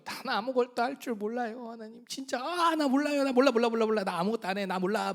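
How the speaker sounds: mock whiny refusal; whining Moses. Moses refusing God, mock whining. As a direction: play the helpless whiner. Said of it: "막 이렇게 한 거예요".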